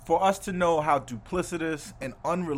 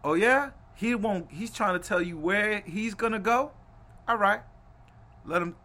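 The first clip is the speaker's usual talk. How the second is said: louder, higher scoffing team owner; Joe Tsai voice; 3 semitones higher, 4 dB louder than usual. Pretend. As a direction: play the owner scoffing at the news. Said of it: "And I'm Joe now again".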